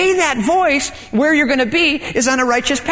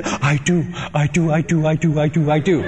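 stubborn whining; 7 semitones lower than usual. Retold or imitated. Stubborn insistence to God.

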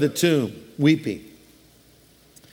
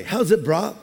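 Hawaiian pidgin greeting. Retold or imitated. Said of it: "if you're a guy".

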